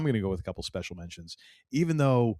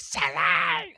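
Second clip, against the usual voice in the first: high, excited squeal of a name; golden retriever excitement; 7 semitones higher, 4 dB louder than usual. Retold or imitated. Keeley spotting Sassy and running off to her, excited squeal. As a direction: call out like an overjoyed puppy. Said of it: "the golden retriever energy".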